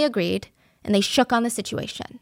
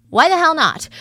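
laughing defiance; 7 semitones higher, 6 dB louder than usual. Retold or imitated. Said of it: "she's like".

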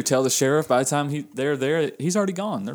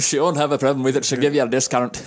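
put-on Scottish accent. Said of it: "if we could do a good Scottish accent".

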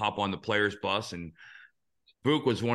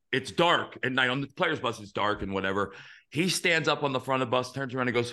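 ordinary talk

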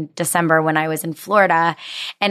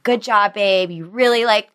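imitating husband. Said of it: "you do a really good imitation".

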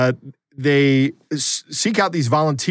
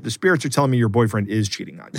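psychic hotline; 3 semitones lower, faster than usual. Pretend. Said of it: "tell 'em that I'm psychic".

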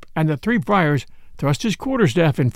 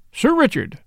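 reproachful; 6 semitones higher than usual. A narrator's reading. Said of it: "in a reproachful tone".

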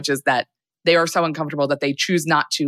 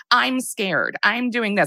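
mock scared adult; 6 semitones higher, slower than usual. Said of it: "this white adult who's like".

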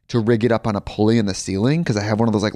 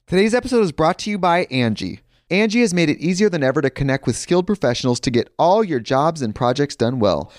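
ad read; 5 semitones higher than usual. Real, not acted.

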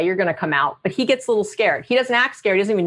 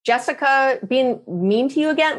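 empathic sigh. Shown as a demonstration. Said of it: "but you might go".

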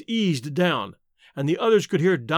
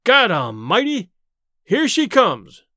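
slow, louder, higher cry of fear; fearful shout; 4 semitones higher, 5 dB louder, slower than usual. A narrator's reading. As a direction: shout the warning in terror. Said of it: "vibrant with fear".

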